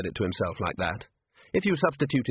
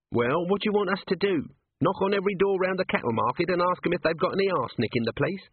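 lightly voiced scruffy little watchman, higher, complaining; Nobby's voice; 9 semitones higher, faster than usual. A narrator's reading. Nobby grumbling to the sergeant, a higher whiny voice. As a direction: whine it up a bit like a grumbling runt.

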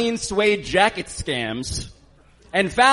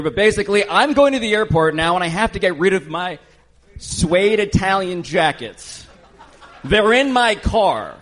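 mock Italian accent; 4 semitones higher than usual. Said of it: "my Italian accent is very legitimate".

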